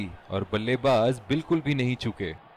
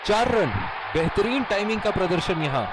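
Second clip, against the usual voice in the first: excited cricket commentary; 5 semitones higher than usual. Acted. Boundary called live.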